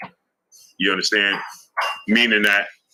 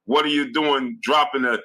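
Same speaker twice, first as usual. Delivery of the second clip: put-on girlfriend's scolding; 5 semitones higher than usual. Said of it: "and she said".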